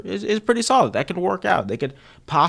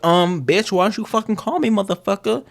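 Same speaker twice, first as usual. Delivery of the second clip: higher, mock-scolding girlfriend voice; clingy girlfriend; 8 semitones higher than usual. Girlfriend scolding a partner who never called back, higher and mocking. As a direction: nag him for not calling back, hammed-up. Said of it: "She's like".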